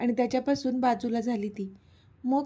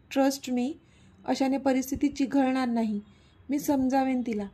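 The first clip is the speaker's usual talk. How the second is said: pleading. Acted. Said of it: "ती त्याला विनवत होती".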